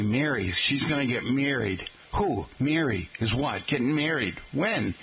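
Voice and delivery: "married" as "meerried" in acted back-and-forth; imitated regional vowel. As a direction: quote locals saying "Mary" nearly as "meery". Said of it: "folks who make it, uh, sounding like".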